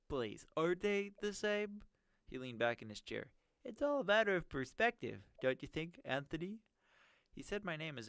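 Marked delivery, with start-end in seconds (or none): 0.1-1.8 nerdy villain voice. Acted. 3.6-6.6 nerdy villain voice. Acted. Villain voice, higher.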